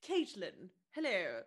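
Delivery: lightly put-on BBC English; mock BBC voice. Co-host over-enunciating a coffee order, mock BBC accent. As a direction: enunciate like a BBC presenter, playfully. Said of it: "Welcome to the B B C".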